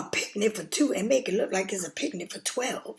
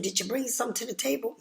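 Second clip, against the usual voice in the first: sassy comeback; 3 semitones higher, much faster than usual. Retold or imitated. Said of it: "I said".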